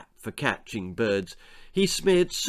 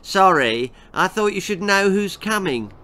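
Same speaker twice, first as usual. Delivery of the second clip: put-on snide girl voice; 6 semitones higher, 5 dB louder than usual. Girl taunts Nan.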